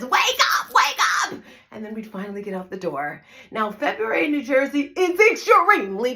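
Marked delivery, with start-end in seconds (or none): 0.0-1.4 mom yelling her son out of bed, much higher and louder; yelling wake-up call. Retold or imitated. Mother yelling at her son to get up in the morning, loud shout. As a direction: shout it up the stairs to a sleepy teenager. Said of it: "yelling and screaming because that's what Tina does".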